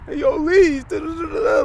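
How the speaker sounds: lightly mock the Valley kid talking like LA; a hint of put-on LA slang voice; LA-style homie voice. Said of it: "really talk like that".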